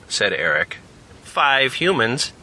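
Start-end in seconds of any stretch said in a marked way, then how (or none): 1.2-2.3 slow robotic cow statue voice; talking cow. Acted. Talking cow statue counting the group, slow and mechanical. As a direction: count them slowly like a machine. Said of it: "said the cow".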